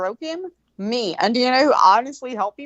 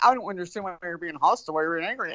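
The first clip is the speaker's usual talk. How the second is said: mocking his whine; 5 semitones lower, 5 dB quieter, faster than usual. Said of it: "He's just like".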